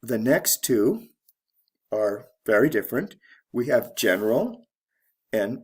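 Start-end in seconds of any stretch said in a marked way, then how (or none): 4.0-4.7 "general" stressed on GEN; teacher's model of "general", beat on GEN; stress on first syllable. Shown as a demonstration. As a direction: lean on the opening GEN of "general". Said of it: "stress shifts from the first".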